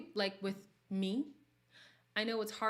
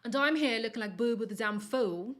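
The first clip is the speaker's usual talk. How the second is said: exasperated; 2 semitones higher, 9 dB louder than usual. Real, not acted. Exasperated outburst.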